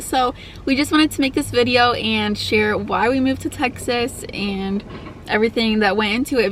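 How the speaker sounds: normal talking voice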